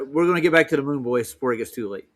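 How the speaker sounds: ordinary delivery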